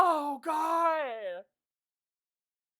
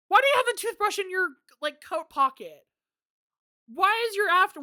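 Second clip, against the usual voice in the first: incredulous; 5 semitones higher than usual. Real, not acted. Mocking character's looks.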